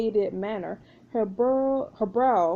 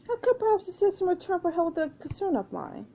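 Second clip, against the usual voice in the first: higher-pitched French character voice; higher, courteous French schemer; French pirate, bargaining; 8 semitones higher than usual. Acted. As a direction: make a polite offer as a lightly voiced French pirate.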